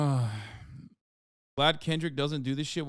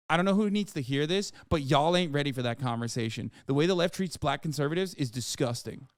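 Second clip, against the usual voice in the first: Chris Tucker voice. Retold or imitated. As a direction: read the tweet lightly voicing Chris Tucker. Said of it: "I read this in his black voice".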